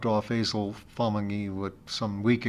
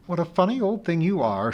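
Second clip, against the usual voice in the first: loving voice; 6 semitones higher than usual. Acted. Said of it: "in such a loving voice".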